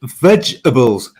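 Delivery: vegetables said slowly, the sound pushed from the throat; slow throaty vegetables. Shown as a demonstration. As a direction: drag out vegetables from the back of the throat. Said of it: "it's in your throat".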